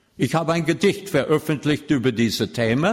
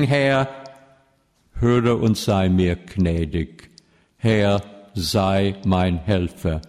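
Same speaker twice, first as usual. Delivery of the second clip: solemn psalm reading. Acted. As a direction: read the psalm as a prayer before the congregation. Reads Psalm 30 as prayer.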